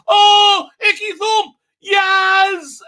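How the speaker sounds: high, loud giddy Doctor shout; imitating the Doctor. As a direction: squeal it like the overjoyed Doctor. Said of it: "She goes".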